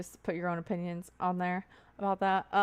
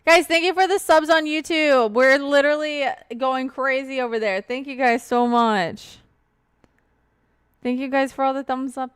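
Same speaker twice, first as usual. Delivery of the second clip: laughing thanks; 4 semitones higher, 8 dB louder than usual. Real, not acted. Thanking subs, still laughing.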